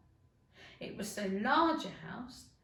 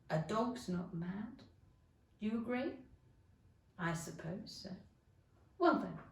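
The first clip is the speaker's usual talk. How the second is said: lightly voiced Cheshire Cat. Cat argues it is mad.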